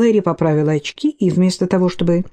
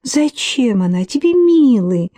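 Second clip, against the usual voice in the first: higher, sweet cooing question; 5 semitones higher than usual. Acted. Кейси coos at her ex-lover Гарри, higher, sweet. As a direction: coo it at him like a lover. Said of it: "проворковала Кейси".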